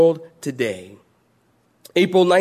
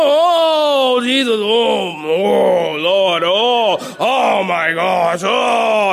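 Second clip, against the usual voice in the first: mock moaning; 2 semitones higher, 4 dB louder, much slower than usual. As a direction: wail it out like a church lady on the bench. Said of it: "But they would just moan".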